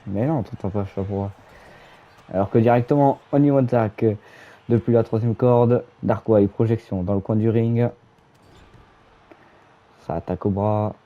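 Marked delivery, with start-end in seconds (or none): 2.3-11.0 live play-by-play call; wrestling commentator. Acted. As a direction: narrate the match as it happens.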